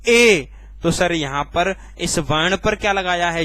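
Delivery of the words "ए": ए held long with force; drawn-out letter. Shown as a demonstration. Teacher answering how it is said, ए drawn out. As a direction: push and stretch ए. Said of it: "क्या बोलते हैं इसको".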